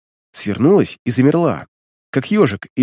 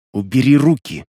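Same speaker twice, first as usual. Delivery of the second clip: through clenched teeth. A narrator's reading. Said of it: "процедила девушка".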